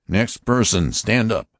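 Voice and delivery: high, stern voice of an alien officer; Martian officer. Acted. Martian officer warning the passengers, stern and high. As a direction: announce it like a cold interrogator. Lighter calls next passenger.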